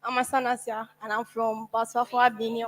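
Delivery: soft, nervous mumble, barely carrying; too quiet. Real, not acted. Nervous student introducing herself to the hall, too softly. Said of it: "If I spoke like this, would you have heard".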